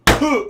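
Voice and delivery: sharp winded grunt, high and loud; the noise of a man landing hard; mock winded grunt; pained grunt. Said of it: "that's the noise I heard".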